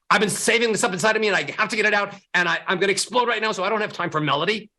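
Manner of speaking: fast, pent-up mock anger; hammed-up angry demo; mock angry rush. Shown as a demonstration. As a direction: rush it out like you're about to explode. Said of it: "what are the sounds of angry".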